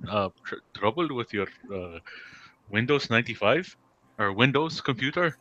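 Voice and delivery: imitated Indian accent, halting scam caller; hesitant caller in a mock Indian accent. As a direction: put on an Indian phone-scammer accent. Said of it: "It's an Indian dude".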